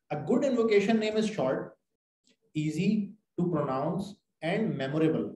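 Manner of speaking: slow, careful reading from the book; slow textbook reading; reading aloud. Shown as a demonstration. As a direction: read each word out deliberately. Reading English text aloud.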